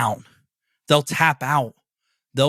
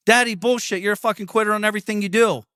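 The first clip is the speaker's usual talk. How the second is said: put-on higher, fast kid's accusation; mocking kid; 4 semitones higher than usual. Son calling out his quitter dad, in a higher, fast bratty kid voice.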